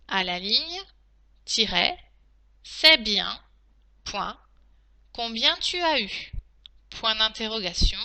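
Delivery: steady reread of the dictation. Shown as a demonstration. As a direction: read it back for checking. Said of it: "je vais donc maintenant relire la dictée".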